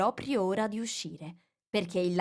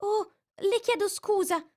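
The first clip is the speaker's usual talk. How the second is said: much higher, quick apology; hurried exclamation; 14 semitones higher, 3 dB louder than usual. A narrator's reading. Alice hastily apologises to the frightened mouse. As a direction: blurt out the apology. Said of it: "si affrettò a esclamare Alice".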